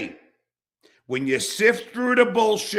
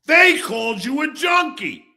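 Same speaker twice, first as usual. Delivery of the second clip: furious yelling; 9 semitones higher, 8 dB louder than usual. Real, not acted. Reminding Rob how he defended him, furious shout. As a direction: shout it out, outraged.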